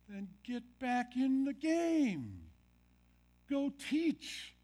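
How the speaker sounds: high, loud, slow call to action; rousing call. Acted. Jesus calling Peter back to teach, a high loud rallying cry. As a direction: lift it up and send him out.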